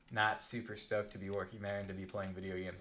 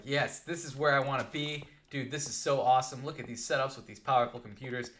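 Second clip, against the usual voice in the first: excited; 3 semitones higher, 4 dB louder than usual. Retold or imitated. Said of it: "I was so excited".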